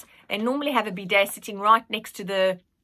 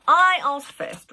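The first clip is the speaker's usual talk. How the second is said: lightly voiced Nanny; 7 semitones higher, 8 dB louder, slower than usual. Nanny voiced in read story.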